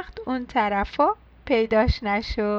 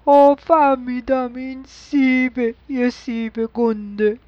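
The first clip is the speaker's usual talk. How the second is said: excited cry; 4 dB louder than usual. Acted. Mouse guesses the pencil's drawing, crying out excitedly. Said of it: "آقا موشه داد زد و گفت".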